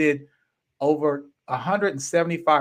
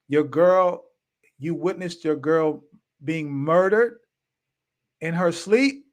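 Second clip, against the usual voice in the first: incredulous; 4 semitones higher, slower than usual. Retold or imitated. Disbelieving reply to murder news.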